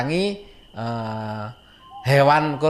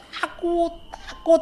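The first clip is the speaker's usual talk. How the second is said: imitated frightened cry; slower than usual. Storyteller imitating Ajis screaming and crying in fear, high mock wail. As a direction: imitate a scared child crying out, pitched way up. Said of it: "teriaknya sambil bicara seperti itu".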